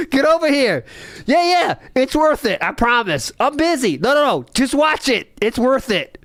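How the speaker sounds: excited intern pulling a coworker over; mock eager intern. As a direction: pester a coworker to watch. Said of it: "imagine someone sending them that".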